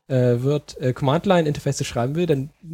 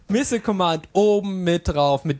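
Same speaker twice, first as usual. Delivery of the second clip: infomercial; 2 semitones higher than usual. Acted. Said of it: "Wenn Sie jetzt anrufen".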